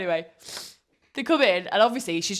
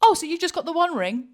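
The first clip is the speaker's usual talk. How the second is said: imitating the celebrant; 11 semitones higher, 7 dB louder than usual. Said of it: "She goes".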